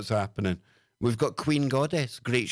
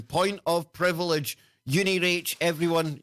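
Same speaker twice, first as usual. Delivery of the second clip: mock formal call; 5 semitones higher than usual. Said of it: "She's making a point of privilege".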